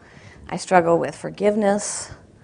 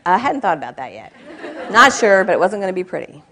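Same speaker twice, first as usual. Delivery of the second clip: sheepish laughing admission; 3 dB louder than usual. Retold or imitated. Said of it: "And I'm like".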